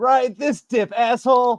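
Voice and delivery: very high, loud, shrieking battle yell. Voicing a character attacking a killer with sharpened rebar: yelling. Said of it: "and yells".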